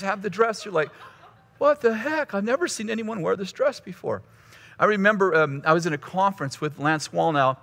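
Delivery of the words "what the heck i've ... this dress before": high-pitched, comically indignant surprise; mock shock. Churchgoer seeing four ladies in her dress, mock shock. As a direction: start high in mock disbelief, then ease down.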